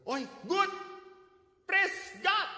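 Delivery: high, loud delighted cry; delighted exclamation. Retold or imitated. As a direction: cheer at the good news. Priest cheering the good news. (seru gembira, tinggi dan keras)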